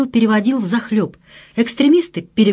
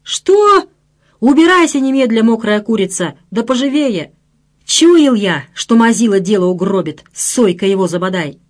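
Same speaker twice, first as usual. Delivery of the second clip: furious boss driving out a coward; angry scolding. Acted. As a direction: chase the coward off in anger.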